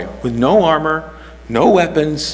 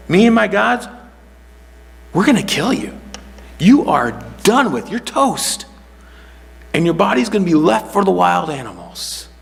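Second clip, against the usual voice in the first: boasting giant; 6 semitones higher than usual. Retold or imitated. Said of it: "what he's saying is that".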